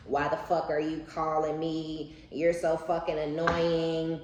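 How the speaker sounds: loud, high, hammed-up yelling down the phone; mock angry rant. Acting out the bitter ex's phone rant, mock yelling. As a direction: play the bitter ex ranting, slow and loud. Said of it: "This person yelling, cussing, screaming".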